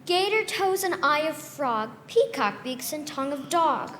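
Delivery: lightly voiced old woman chanting a recipe; a hint of a witch at her cookpot; old lady reciting. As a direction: rattle off the witchy recipe with glee.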